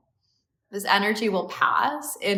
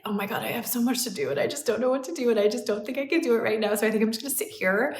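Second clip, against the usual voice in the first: fast, run-on inner monologue; overwhelmed rambling; 3 semitones higher, much faster than usual. Retold or imitated. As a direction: rattle it off like swirling thoughts.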